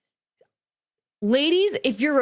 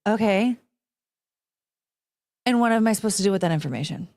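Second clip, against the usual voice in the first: deadpan incredulous; faster than usual. Shown as a demonstration. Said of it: "My response right here, right now is".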